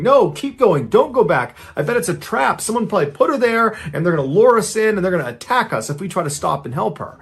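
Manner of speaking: high, loud, urgent pleading; alarmed warning that eases at the end; terrified. A narrator's reading. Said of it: "is now terrified and she's saying".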